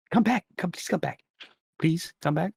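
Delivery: high, begging plea; pleading toymaker. Acted. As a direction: beg them to come back, high-pitched. Toymaker pleading as party leaves.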